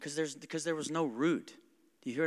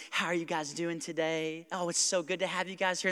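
sweetly insincere server greeting; imitating an over-nice waitress; fake kindness. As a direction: put on a friendly welcome for customers. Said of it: "some really good fake kindness".

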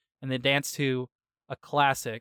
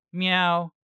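higher, louder meow; imitated snail's meow; 5 semitones higher, 5 dB louder than usual. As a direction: mimic a cartoon pet's meow. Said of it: "Gary is like".

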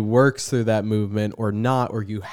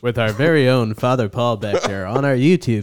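promo announcer read. Acted. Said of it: "announcer voice like this".

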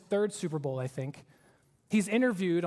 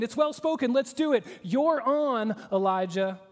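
mock cocky crowd; 4 semitones higher, 3 dB louder than usual. Mocking the confident Baal prophets.

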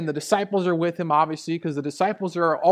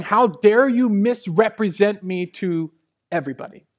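mildly angry retold rebuke, louder; indignant rebuke; 4 semitones higher, 6 dB louder than usual. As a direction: scold as an irate Jesus, in a preacher's voice. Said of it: "that word angry is holding back".

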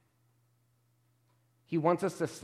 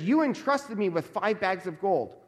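excited servant; 3 semitones higher than usual. Retold or imitated. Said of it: "There's an excitement there".

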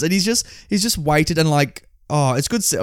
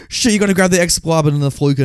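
mock actor speeding through lines; rushed line reading; 3 semitones higher than usual. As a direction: hurry through a garbled table read. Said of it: "speeding through a run".

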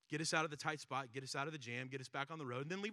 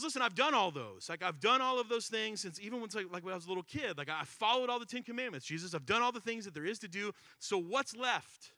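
raised and louder, proud of his record; self-satisfied boast; 3 semitones higher, 4 dB louder than usual. Acted. Rich man insisting to Jesus he has done everything, raised, loud and proud. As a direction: puff up and list your good deeds, then demand the price.

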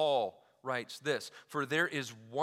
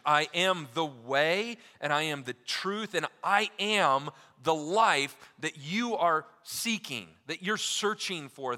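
emphatic proclamation; 3 semitones higher, 5 dB louder than usual. Acted. Preacher voicing Jesus emphatically.

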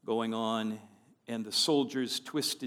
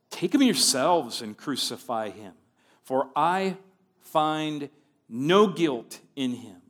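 exasperated; 6 dB louder than usual. Acted. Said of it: "he's just utterly exasperated with these people".

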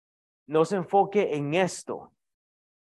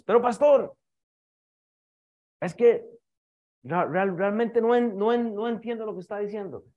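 higher, louder puzzled churchgoer; confused congregant; 4 semitones higher, 3 dB louder than usual. Pretend. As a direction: play a baffled listener objecting. (feligrés confundido, más agudo y fuerte)

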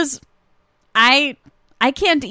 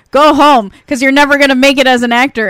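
loud, quick mock put-down; roasting her; 6 dB louder than usual. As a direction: imitate a teacher tearing into a student. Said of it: "he really roasted her".

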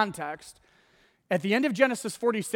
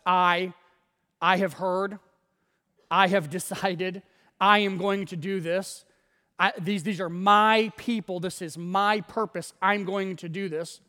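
preacher showing how often God says "I", hitting each "I"; stress on I. Shown as a demonstration. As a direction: lean on every "I". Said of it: "How many times does God say, "I".

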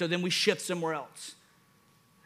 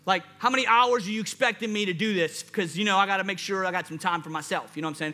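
hyped doubtful follower; 3 semitones higher than usual. Retold or imitated. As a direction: play the excited follower who keeps asking Jesus about hours and pay. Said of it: "this is probably what we would do".

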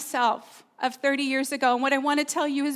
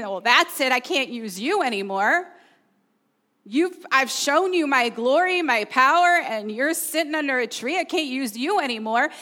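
angry; 3 dB louder than usual. Acted. Preacher voicing what people wrongly think God says, angry. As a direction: scold as a fed-up God, moderately forceful. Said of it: "If you hear an angry voice".

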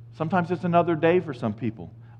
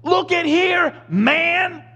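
much higher, pushy buddy call; casual angel; 3 dB louder, much slower than usual. Retold or imitated. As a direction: grab his attention like a friend. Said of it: "That's what he's saying".

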